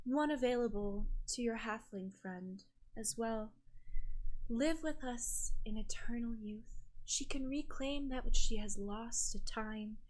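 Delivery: gentle, measured sorceress with long pauses; softened enchantress. Acted.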